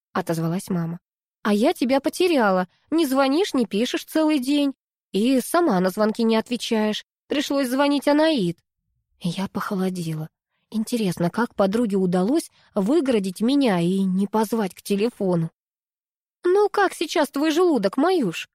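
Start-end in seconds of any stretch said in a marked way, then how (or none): 1.4-8.6 a hint of a worried mother, a bit higher; mother scolding gently on the phone, lightly voiced. 16.4-18.5 concerned mother, pitched higher; worried mother. A narrator's reading. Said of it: "обеспокоенно спросила мама".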